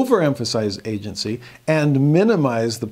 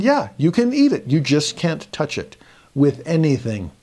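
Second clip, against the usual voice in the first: high playful "Yeah, you can eat it"; teasing teacher; 4 semitones higher than usual. Retold or imitated. Teacher teasing a student over candy, high and playful. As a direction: lilt it up, teasing.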